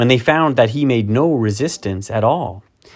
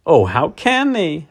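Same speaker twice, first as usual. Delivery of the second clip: put-on higher, upset young voice; tearful girl; 7 semitones higher than usual. A narrator's reading. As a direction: plead through tears like a child. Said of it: "tears streaming down her cheeks".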